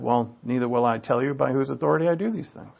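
lightly voiced, composed answer; calm retold reply. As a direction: answer quietly and evenly, imitating unruffled authority.

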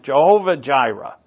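put-on Jehovah Jireh with a light New England accent. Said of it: "you say it with your New England accent".

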